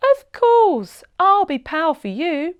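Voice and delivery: high, loud, eager promise; girl promising the turtle to help; eager agreement. A narrator's reading. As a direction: promise gladly like an eager child.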